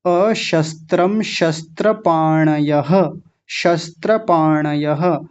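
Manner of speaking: अशस्त्रम शस्त्रपाणयः said slowly, श and स kept distinct; careful sibilants. Shown as a demonstration. Teacher modelling the sibilants for students, slow. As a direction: separate the two sibilants clearly. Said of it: "दोनों का अलग-अलग उच्चारण".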